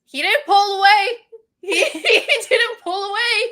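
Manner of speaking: high, loud protest; worked-up, disbelieving outburst; incredulous insistence. Real, not acted. Insisting on her point, incredulous.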